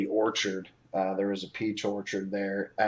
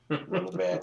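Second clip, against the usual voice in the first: lightly put-on Tennessee accent; southern accent; 10 semitones higher, faster than usual. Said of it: "Is that your southern accent?".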